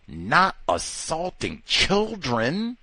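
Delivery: ordinary talk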